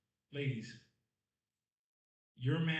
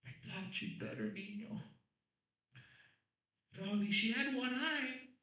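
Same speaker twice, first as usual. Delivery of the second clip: sly mother; 8 semitones higher, slower than usual. Retold or imitated. Comic playing his mother nailing the one-eye comeback, slow and grand. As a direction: deliver the comeback slowly, triumphant. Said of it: "She went".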